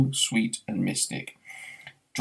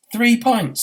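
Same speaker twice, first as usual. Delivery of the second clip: much higher, louder disbelief; incredulous; 13 semitones higher, 6 dB louder than usual. Acted. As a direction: squeak out the shock. Arthur incredulous.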